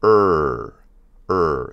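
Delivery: er held long with a falling tone; Mandarin two. Shown as a demonstration. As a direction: draw out er, letting it drop. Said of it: "and it's er".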